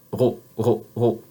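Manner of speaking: "ra" with a throaty French "r", mouth open. Shown as a demonstration. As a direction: uvular "ra", tongue tip hidden. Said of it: "that is that one".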